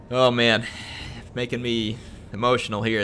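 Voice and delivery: real choked-up emotion; holding back tears. Real, not acted. Streamer moved by a viewer's message, trying not to cry. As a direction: fight back tears, pausing to regain composure. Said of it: "I'm trying not to cry right now".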